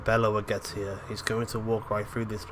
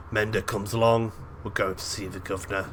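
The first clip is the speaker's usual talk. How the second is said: lightly put-on British accent. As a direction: give the order with a British tinge. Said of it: "hard to say governor without sounding like British".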